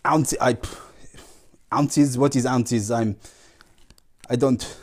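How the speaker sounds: lightly voiced pompous foreign champion; a hint of a grand visiting archer; Jan von Ripberger voice. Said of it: "introduce you to my special guest".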